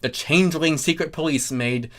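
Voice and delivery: plain reading voice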